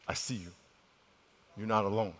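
low, soft voice of reassurance; quiet comfort. Retold or imitated. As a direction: say it gently, as God comforting someone hurting. Voices God comforting the woman.

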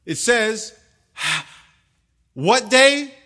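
high, loud questions to the crowd; loud prompting. Real, not acted. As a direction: call out to the congregation. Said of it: "Say it with confidence".

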